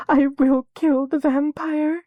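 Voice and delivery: high, slow choked vow; sobbing girl vowing revenge. A narrator's reading. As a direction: choke it out through sobs. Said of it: "she choked".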